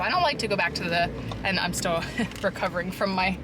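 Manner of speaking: cracking voice from a cold. Real, not acted. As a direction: let the voice crack, still sick. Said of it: "my voice cracks like that".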